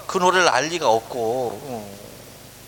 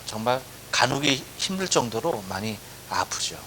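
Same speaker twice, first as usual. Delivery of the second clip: hushed whisper; 3 semitones lower, 6 dB quieter than usual. Real, not acted. Sermon close on heartbreak.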